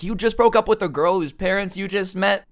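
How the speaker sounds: high-pitched mock disbelief; incredulous mom. Mom questioning her son about the breakup, incredulous. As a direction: question it like a stunned mother.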